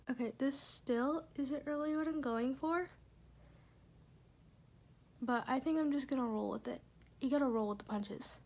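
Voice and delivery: talking around a retainer; slightly lisped retainer speech; wearing a retainer. Real, not acted. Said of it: "let me take my retainer out".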